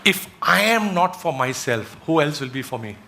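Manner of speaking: slow quotation with weight on the opening; slow, deliberate quote. Shown as a demonstration. Speaker giving an audience a powerful quote, slow and deliberate. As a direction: say the quote slowly, letting it sink in. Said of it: "I'll say it a little slow".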